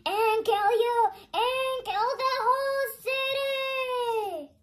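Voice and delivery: slow, menacing villain voice, lightly put on; Venom. Kid as Venom threatening to destroy the city, slow menace. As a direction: drawl threats like a monster villain. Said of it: "I am Venom".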